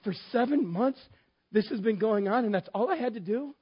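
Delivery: high-pitched acted disbelief; comically dumbfounded husband; incredulous. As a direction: question it as if stunned. Acts out incredulous question to wife.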